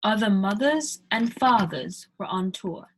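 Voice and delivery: British accent, non-rhotic mothers and fathers; British accent demo. Shown as a demonstration. Teacher demos a British accent to learners. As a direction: read it in a British accent, dropping the R sounds. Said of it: "that one you say tour".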